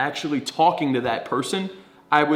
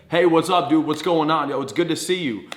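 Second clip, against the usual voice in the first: loud friendly greeting. Shown as a demonstration. Coach demonstrating a greeting to friends, loud and upbeat. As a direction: greet them so the room hears. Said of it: "Talk at a loud volume".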